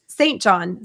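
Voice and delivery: Saint John with a full American "Saint"; American pronunciation. Shown as a demonstration. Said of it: "I have the American accent".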